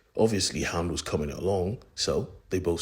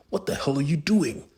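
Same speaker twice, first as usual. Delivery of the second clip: sharp, louder and much higher outburst; shocked furious yell; angry shout; 8 semitones higher, 4 dB louder, faster than usual. Acted. Destro finds men in lab.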